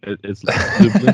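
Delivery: slow, loud Polish Lublin; native pronunciation. Shown as a demonstration. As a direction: Lublin drawn out, Polish style, with a rising end. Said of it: "it's not Lublin?".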